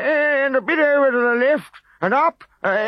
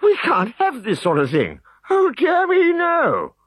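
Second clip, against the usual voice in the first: high, louder indignant chief; higher and louder, ever more indignant; worked up; 4 dB louder, slower than usual. A narrator's reading. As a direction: fuss himself into a lather. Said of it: "He was getting quite worked up".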